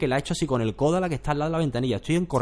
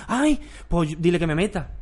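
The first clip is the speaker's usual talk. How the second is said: mock pleading acquaintance; 5 semitones higher than usual. Voicing people asking favours.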